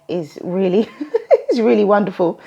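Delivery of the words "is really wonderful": chuckling through the words; laughing. Real, not acted. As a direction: laugh while saying it. Mocking fake self-care.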